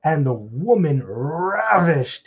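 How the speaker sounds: punched, forceful Bible recitation; emphatic preacher's reading with stretched final words; scripture reading. Real, not acted. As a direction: read the verse out, slowing and swelling toward the end. Reads scripture aloud.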